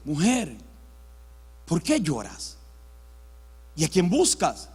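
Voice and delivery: low, tender questions with long pauses; gentle Jesus. Acted. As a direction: ask a weeping woman, unhurried and kindly. Jesús se acerca a María. (preguntas tiernas, graves y pausadas)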